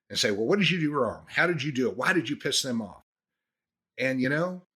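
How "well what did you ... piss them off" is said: mildly heated mock scolding; mock interrogation. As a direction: fire off accusing questions, pitched up. Acted scolding of an employee.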